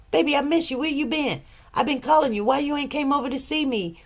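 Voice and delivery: a mother fishing for attention, coaxing and high; pleading mom voice. Retold or imitated. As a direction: whine sweetly to get their attention. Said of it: "Mama, why you talking like that?".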